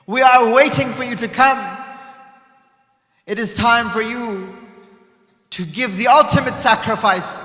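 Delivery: loud, measured call to sacrifice; solemn call. Acted. Grandfather summoning Hussein in a vision, loud and solemn.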